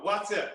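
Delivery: "water" said "watter", with a short flat a and a dropped r; Yorkshire pronunciation. Shown as a demonstration. The speaker shows the host how Yorkshire folk say "water": "watter". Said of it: "That's what they call water".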